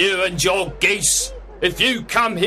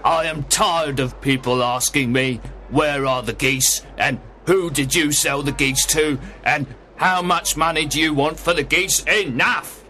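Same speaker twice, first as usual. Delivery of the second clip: higher, exasperated salesman rant; angry; 7 semitones higher than usual. A narrator's reading. Salesman tired of questions about geese, angry. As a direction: build the pitch up to a fed-up outburst. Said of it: "Mister Breckinridge replied angrily".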